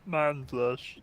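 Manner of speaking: gruff orc growl. Acted. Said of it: "It's just gonna be orc voice".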